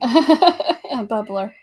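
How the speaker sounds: "bubbler" drawn out slowly through a laugh. Shown as a demonstration.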